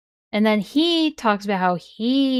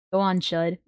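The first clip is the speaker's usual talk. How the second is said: low, dark shadow voice; a hint of a dark whisper; 3 semitones lower, 3 dB quieter than usual. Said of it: "my shadow voice".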